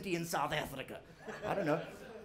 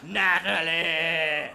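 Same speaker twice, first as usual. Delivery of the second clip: slow, drawn-out demonic calling; summoning a demon; 3 semitones lower, 3 dB louder, much slower than usual. Retold or imitated. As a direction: call her name like summoning a demon from hell. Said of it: "she's summoning a demon from hell".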